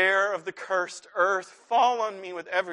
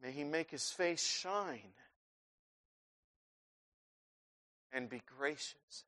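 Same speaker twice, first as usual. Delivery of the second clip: soft closing; 3 semitones lower, 13 dB quieter than usual. Acted. Quiet resolution.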